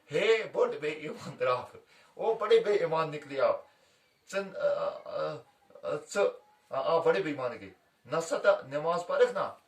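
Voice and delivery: loud mock scold at a fleeing cheat; calling out loud. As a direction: call out after him across the field. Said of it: "मुर्गे ने आलो आवाज इसको दी".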